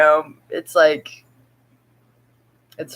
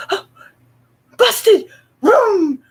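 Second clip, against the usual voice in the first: much higher, louder laughing cat voice; voicing the cat; 13 semitones higher, 4 dB louder, much slower than usual. Owner voicing cat fleeing after hiss, laughing high cat voice. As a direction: play the caught cat zooming off. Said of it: "she's like".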